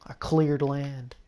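slow, playful southern drawl; southern accent. Pretend. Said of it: "I have to say it with a southern accent".

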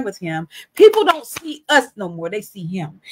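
building preacher cadence, swelling then dropping; preaching. Acted. Preaching to listeners about prayer, rising sermon cadence. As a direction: preach it, lift the lines then bring them down.

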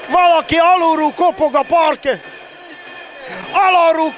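high, lively comic riff; excited joking. Real, not acted. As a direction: play up the silly joke.

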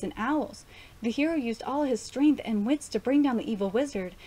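reading a fairy tale aloud, a little brighter; storybook narration, lightly lifted; story reading. Acted. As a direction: tell it like a bedtime story to a child. Reads the manga story aloud.

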